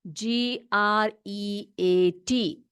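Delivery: each letter spaced out, very slow; spelling out slowly. Shown as a demonstration. Teacher spelling a word for her class, very slow. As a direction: spell it slowly so children can copy. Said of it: "spelling देख लो great का".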